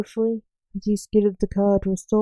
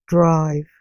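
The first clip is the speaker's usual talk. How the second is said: cold; 3 semitones lower, 4 dB louder than usual. Acted. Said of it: "said the stranger coldly".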